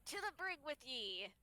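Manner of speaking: loud outraged pirate voice; pirate scolding. Acted. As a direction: scold them like an angry pirate.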